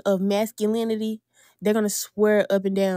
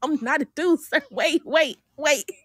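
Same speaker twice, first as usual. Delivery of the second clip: pleading; 5 semitones higher than usual. Retold or imitated. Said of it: "I'm like".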